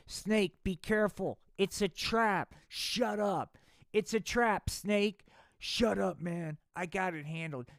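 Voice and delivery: hammed-up alarmed sidekick; frantic warning. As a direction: call out a panicked warning.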